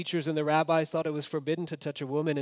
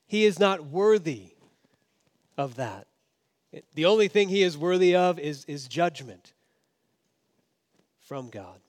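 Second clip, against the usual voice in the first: devout Jew scorning; 3 semitones higher, 5 dB louder than usual. Retold or imitated. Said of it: "So a devout Jew of the day would say".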